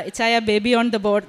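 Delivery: slow, drawn-out teasing announcement; playful, offhand. Retold or imitated. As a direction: toss it off lightly to her husband, dragging it out slowly. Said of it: "എന്നിങ്ങനെ ചുമ്മാ പറഞ്ഞു".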